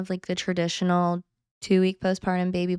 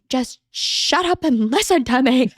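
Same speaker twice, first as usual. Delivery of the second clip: higher-pitched retold outburst; mock exasperated snap; 6 semitones higher, 3 dB louder than usual. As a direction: snap at your husband, half in fun. Retold snapping at husband on phone.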